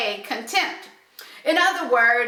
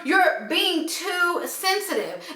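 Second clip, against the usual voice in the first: higher-pitched, hurried dismissive retort; mock defensive; 4 semitones higher than usual. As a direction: brush off their feelings, mildly defensive. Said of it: "gets angry or defensive".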